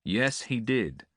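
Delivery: easy, slow friendly agreement; older brother calming the angry prince, amiable; amiably. A narrator's reading. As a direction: agree lightly, smoothing it over. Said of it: "agreed the young man amiably".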